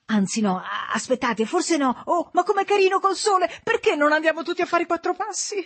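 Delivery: high, bright twittering housewife; chirpy Mrs Givens. A narrator's reading. Mother breaks the tension by pointing at a rainbow, high and chirpy. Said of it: "cinguettante della voce della signora Givens".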